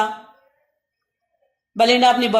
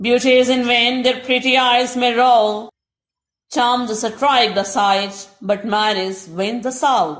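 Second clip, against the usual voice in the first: slow, measured verse reading; slow poem recitation; much slower than usual. Acted. Teacher reading verse slowly to Urdu-speaking students. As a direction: read each word of the couplet slowly.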